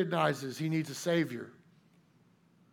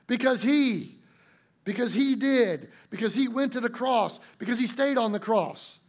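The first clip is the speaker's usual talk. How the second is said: "he" punched much higher and louder; louder, higher third-person claim; stress on HE; 6 semitones higher, 4 dB louder than usual. Shown as a demonstration. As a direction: hit the word "he" in every "because he". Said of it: "Only the third person will suffice".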